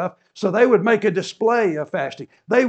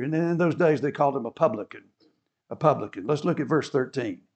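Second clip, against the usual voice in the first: normal talking voice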